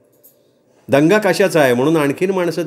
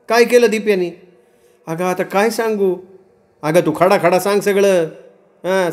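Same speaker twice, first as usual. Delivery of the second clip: high-pitched village women trading grievances; high rustic dialogue voice; distressed village women; 7 semitones higher than usual. Acted. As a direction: voice rural women in a raised, higher pitch. Women of the story talking in dialogue.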